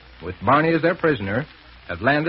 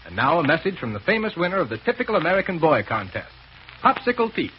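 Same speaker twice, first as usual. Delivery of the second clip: brisk vintage radio ad read; old radio announcer; 2 semitones higher than usual. Acted. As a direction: sell it like a forties announcer. Reads sponsor message on air.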